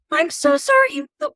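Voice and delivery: sudden high, sweet apologetic voice; Snow White voice. Retold or imitated. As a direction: pitch it way up like a startled princess. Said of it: "I'm very much like Snow White at that point".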